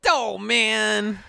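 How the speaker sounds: hammed-up slow French accent. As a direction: stretch out Dolman in a mock French accent. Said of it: "how to do my French accent".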